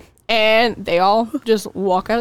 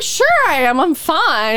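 higher-pitched insistent denial; imitating a drunk person's assurance; mock protest; 5 semitones higher than usual. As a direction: protest lightly that you're perfectly fine. Drunk speaker protesting she can drive.

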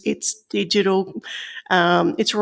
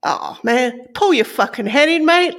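thick Aussie accent; 4 semitones higher than usual. Shown as a demonstration. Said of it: "her thickest Aussie accent".

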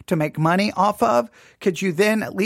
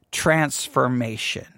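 "transformation" drawn out slowly and lower; stress on transformation; 8 semitones lower, slower than usual. Real, not acted. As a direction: stretch out "transformation" with deliberate weight. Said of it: "I'm stressing that word".

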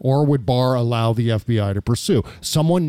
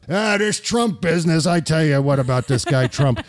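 lightly put-on blustery character voice, pitched up at the start; mock grumbler. Host parodies his own "Trump business" phrase, mock grumbling. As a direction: do a small comic grumbler bit.

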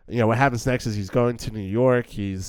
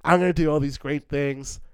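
a touch higher, mildly giddy imitation; 6 semitones higher than usual. Joe on the bus imagining New York, a hint of giddiness. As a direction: lightly play the eager dreamer heading to the city. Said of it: "so giddy".

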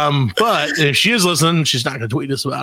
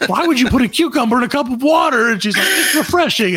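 laughing; 9 semitones higher than usual. Retold or imitated. Retelling argument while laughing.

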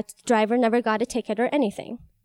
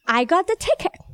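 tearful repeat; 6 semitones higher than usual. Real, not acted. Repeats the protest after a pause.

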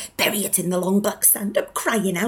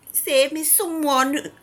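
desperate cry; 5 semitones higher, slower than usual. Acted. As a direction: call out to anyone who will listen. Madwoman pleading, said twice.

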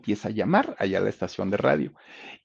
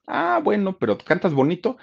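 higher-pitched curious producer; productor interesado, actuado; 10 semitones higher, 4 dB louder than usual. Retold or imitated. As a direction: answer with perked-up, higher interest. Producer's acted reply to Carmelita. (productor curioso, voz más aguda)

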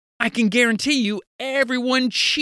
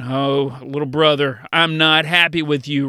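low, mildly grumpy acted complaint; mock cross sibling; 5 semitones lower than usual. Older sibling confronting the credit-stealing brother, lowered and mock cross. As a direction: play a put-out older sibling, lightly. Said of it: "I bet you're stopping, you're going".

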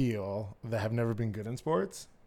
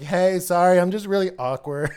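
high, loud apology breaking into laughter; laughing apology; 7 semitones higher, 7 dB louder than usual. Retold or imitated. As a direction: retell the apology, cracking up at the end.

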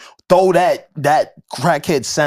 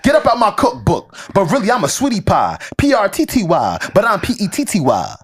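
slightly higher twitchy crackhead rap; 5 semitones higher than usual. Shown as a demonstration. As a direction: keep the jittery addict read going. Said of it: "I'm trying to read in crackhead".

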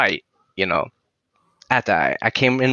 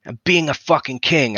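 higher, mock mate-to-mate pep talk; 7 semitones higher than usual. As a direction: imitate a star backstage urging a rookie on. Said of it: "he comes".

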